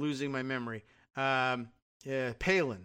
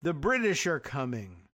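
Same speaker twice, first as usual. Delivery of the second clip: imitating the senator; 5 semitones higher, 3 dB louder than usual. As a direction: ham up the rhetorical question. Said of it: "I don't know what her accent sounds like".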